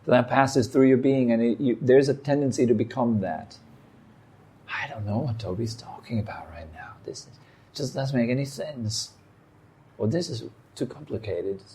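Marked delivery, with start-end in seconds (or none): 4.7-11.6 whispered, private grumble of confusion; confused whisper. Pretend. Listener whispering doubts about Toby's talk. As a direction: murmur it to yourself, lost.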